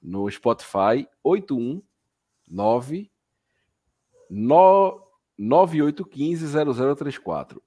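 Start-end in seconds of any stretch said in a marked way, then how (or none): 1.2-7.6 over enunciating. Shown as a demonstration. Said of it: "Vou falar devagar pra você".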